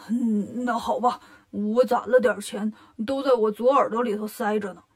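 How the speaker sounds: lightly voiced pig, giving in; hesitate, then grudgingly confess; Bajie, reluctant pig-man. Bajie reluctantly admits savings.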